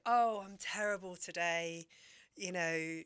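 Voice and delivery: mock-moan like a gossiping granny; a lightly voiced grumbling grandmother; old Spanish grandmother. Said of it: "And she'd say".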